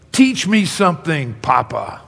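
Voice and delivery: mock excited kid asking; half yelled, excited grandson; eager child. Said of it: "excitedly, he almost yells it".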